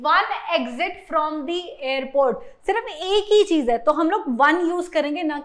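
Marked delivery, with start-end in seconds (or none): 0.1-2.4 slow, deliberate example sentence; teacher reading an example aloud slowly. Shown as a demonstration. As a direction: read the example slowly, word by word. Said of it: "तो example देखते हैं".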